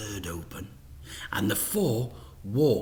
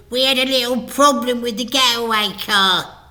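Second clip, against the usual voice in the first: much higher, louder flustered apology; nervous crook; 13 semitones higher, 9 dB louder, faster than usual. A narrator's reading. Fingers to Mister Big, flustered apology. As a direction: grovel to the boss.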